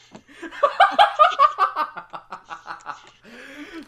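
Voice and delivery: high, loud rising cackle; loud burst of laughter. Real, not acted. Host cracks up at cohost's joke, loud high laughter. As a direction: explode into laughter. Reacting to fried chicken joke.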